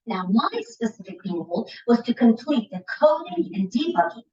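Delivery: confident project update, upbeat and precise; enthusiastic expert. Shown as a demonstration. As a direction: present like the expert you are. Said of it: "my tone here is enthusiastic, expert, and detail-oriented".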